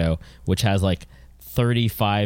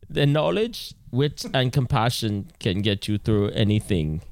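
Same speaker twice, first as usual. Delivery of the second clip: Werner Herzog. Pretend. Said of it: "read this as if you were Werner Herzog".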